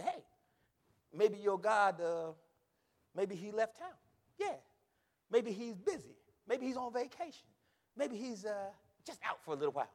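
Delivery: mock-helpful suggestions; making fun. Elijah teasing rival prophets about their absent God, mocking. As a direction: tease them with hesitant guesses. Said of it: "Elijah even made fun of them".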